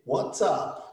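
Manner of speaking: "what's up" with the t sounded; careful, complete "what's up"; full pronunciation. Shown as a demonstration. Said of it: "ela não diria".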